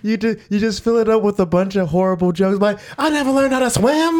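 way up high, squeaky and goofy. Pretend. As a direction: pitch it up into a silly squeak. Joking about sequels, squeaky voice.

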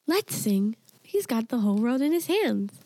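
lightly voiced speech device, little girl; a hint of a synthetic child's voice; imitating computer girl voice. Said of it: "supposedly a little girl voice".

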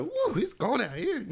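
high yelp about the cold, ending in a shrieked woo; cold grandma. Retold or imitated. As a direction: yelp like grandma hit by the freezing wind. Grandma in the snow again.

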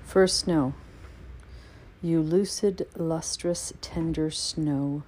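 slow, measured recital of a winter poem; reading a snow poem aloud to listeners, slow and measured; poetry reading. Acted. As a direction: linger on each image, unhurried. Reads poem in English.

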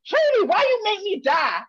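high, loud mock complaint; mad gamer dad. Daughter imitating dad after he dies in game, mad mock wail. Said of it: "when he gets mad at me".

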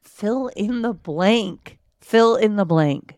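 slow, teasing emphasis; teasing drawl. Real, not acted. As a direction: drag it out to tease him. Teasing wife pressing husband.

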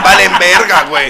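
loud laughing outburst. Real, not acted. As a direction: laugh through the words.

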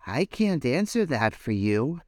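lightly voiced starfish. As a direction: answer gently. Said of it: "said the starfish".

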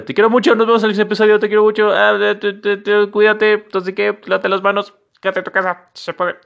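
very high, loud excited goodbye; hyped rushed outro. Acted. Signing off to listeners in a frantic squeal. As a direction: gush it out all at once, sky high. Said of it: "lo voy a hacer muy rápido".

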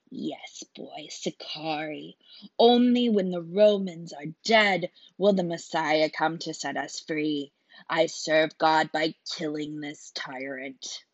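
a killer proud of his cause, hushed and hard; fanatical assassin. Acted. Assassin's creed, half whispered.

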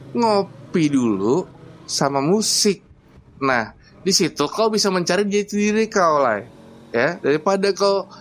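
lightly voiced bossy Batak father, lecturing. Batak father lectures the young man, bossy Batak accent. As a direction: scold him in a Batak accent.

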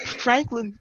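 badly faked Australian accent; attempted Australian accent. Professor calling on a student in class, attempted Australian accent. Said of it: "'cause he's, like, Australian".

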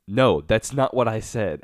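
slow, weary, fed-up protest; exasperated. Retold or imitated. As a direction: drag it out like you're sick of repeating yourself. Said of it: "I read it in the most exasperated voice ever".

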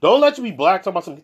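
ordinary talk

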